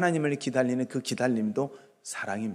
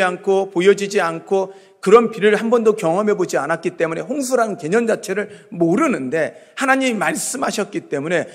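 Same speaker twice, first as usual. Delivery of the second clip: raised, driving sermon voice; impassioned preaching; 4 semitones higher, 6 dB louder than usual. Real, not acted. Preacher telling how Noah built the ark on trust, impassioned. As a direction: press each phrase on the congregation.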